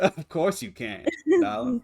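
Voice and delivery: sweet mock Southern belle; Southern accent. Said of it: "I am supposed to be speaking in a Southern accent".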